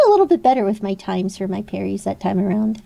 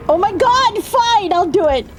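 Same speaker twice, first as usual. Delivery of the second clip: resentful compliance; 7 semitones higher than usual. Real, not acted. Grudgingly giving in to use arm.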